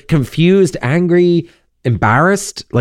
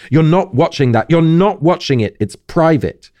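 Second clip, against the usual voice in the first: protective inner voice; 6 semitones higher than usual. Acted. Harry's inner voice protecting memory.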